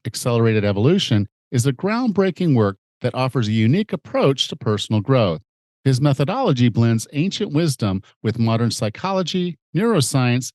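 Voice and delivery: formal guest introduction. Acted. Podcast host presenting his guest to listeners, announcer read. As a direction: build up the guest like a host on air.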